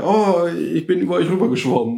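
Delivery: put-on high, bright little kid voice; child voice. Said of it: "kam so ein Kind an und meinte".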